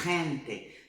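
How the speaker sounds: "gente" said slowly, felt in the throat; throaty demo. Shown as a demonstration. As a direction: let "gente" scrape the throat. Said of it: "você vai sentir arranhando aqui".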